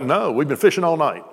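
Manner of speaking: retold fishermen calling to shore, understated; mild mock yell back. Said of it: "They yell back".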